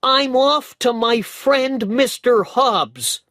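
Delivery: put-on high, loud, slow boyish call; boy crying out in a hurry; eager cry. A narrator's reading. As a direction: call it out, already running off. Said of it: "cried Dick".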